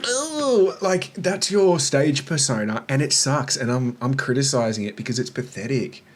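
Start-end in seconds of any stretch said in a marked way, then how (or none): 0.1-0.7 high-pitched, wimpy mock "ooh". Critic mimicking the nervous stage persona, high mocking ooh.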